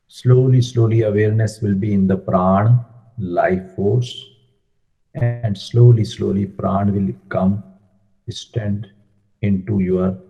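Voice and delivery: measured meditation guidance with long pauses; unhurried phrases, leaving room to breathe; guided meditation. Acted. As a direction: guide a seated group through breath and stillness.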